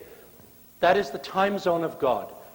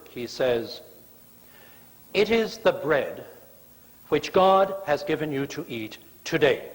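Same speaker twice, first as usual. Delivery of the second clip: a hint of a stern Charlton Heston Moses; gritted teeth. Moses scolding grumbling Israelites, through gritted teeth. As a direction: bite out every word through clenched teeth. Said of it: "think of him as gritted teeth ... Charlton Heston".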